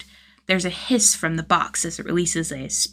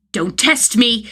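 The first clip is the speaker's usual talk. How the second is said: put-on a kid's loud, higher cry; child's shriek; 4 semitones higher, 5 dB louder, slower than usual. A narrator's reading. Child warns the stumbling man, mock shriek. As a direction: shriek it like a bossy little hero. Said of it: "the hallucination child shrieks".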